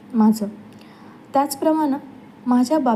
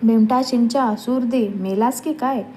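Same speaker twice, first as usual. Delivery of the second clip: put-on a half-sung shout at the boy behind him; a touch of the uncle's sung scolding; mild mock yell. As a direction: call him out, still in the kirtan tune. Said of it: "त्याच्या सुरात ओरडायचा".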